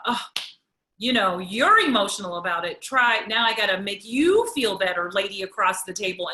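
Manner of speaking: mock annoyed reaction. Women's voiced annoyed reaction.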